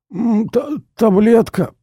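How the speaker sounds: high, strangled gasp for a pill; heart-attack victim groaning for his pill; moaning in pain. Acted. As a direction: choke the word out. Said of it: "промычал он".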